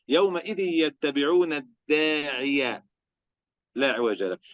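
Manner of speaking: slow, drawn-out intoned verse; Quran recitation. Acted. Teacher recites the verse to students, slow intoned recitation. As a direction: stretch the verse out slowly in a chant.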